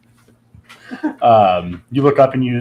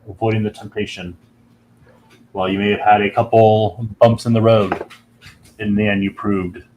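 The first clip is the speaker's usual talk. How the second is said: deep dragon voice; 2 semitones lower than usual. Acted. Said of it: "you hear a deep voice".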